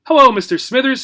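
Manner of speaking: high bright gerbil voice; little rodent greeting. Acted. Gerbil Obie speaks.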